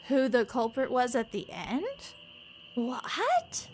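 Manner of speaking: incredulous rising questions, half playful; mock disbelief. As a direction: play up amazed disbelief at the clues. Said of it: "I'm like".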